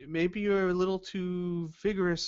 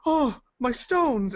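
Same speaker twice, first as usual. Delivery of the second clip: high, slow wail over spilled stones; a stranger crying out for his lost stones, drawn out high; dismayed mark; 11 semitones higher, 5 dB louder, slower than usual. Acted. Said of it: "looks at the floor and goes".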